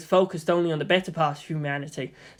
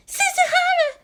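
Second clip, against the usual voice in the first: much higher, loud surprised name call; 5 dB louder than usual. A narrator's reading. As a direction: gasp his name as he walks in. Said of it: "Hikari's surprise was more muted".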